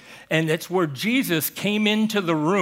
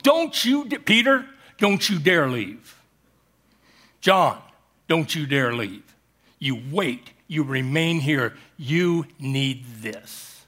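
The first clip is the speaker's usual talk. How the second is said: stern command; 2 semitones lower than usual. Shown as a demonstration. Jesus orders Peter and John not to leave, stern. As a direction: call each disciple out by name. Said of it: "that's the way he said it".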